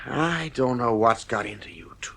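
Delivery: soft, breathy worried whisper. Acted. Father troubled by his children, whispered. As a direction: say it under your breath. Anxious father murmurs to himself.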